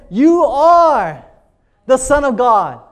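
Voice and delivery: God's proclamation. Acted. Preacher voicing God to his son, a booming declaration. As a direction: announce it like a voice from heaven.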